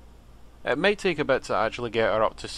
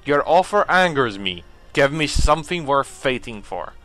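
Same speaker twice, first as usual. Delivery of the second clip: alien voice; 5 dB louder than usual. Acted. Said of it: "trying to give him a voice".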